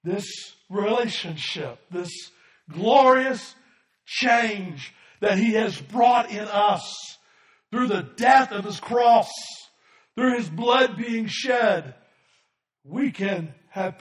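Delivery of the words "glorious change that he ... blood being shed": rising, louder, slowed preaching build; preaching crescendo. Real, not acted. Pastor preaching to the congregation, rising and loud. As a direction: build it up, drawing out each word.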